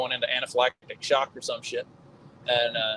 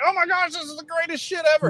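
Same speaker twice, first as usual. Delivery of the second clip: much higher, laughing excited gush; laughing, higher mock awe; mock teen gushing; 13 semitones higher, faster than usual. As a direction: play a starstruck teenager. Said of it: "it's like".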